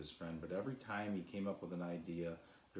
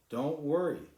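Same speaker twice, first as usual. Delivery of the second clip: higher, louder bright reassurance; reassuring; 8 semitones higher, 10 dB louder than usual. A narrator's reading. Sly reassuring the cloud, loud and bright. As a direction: cheer her up.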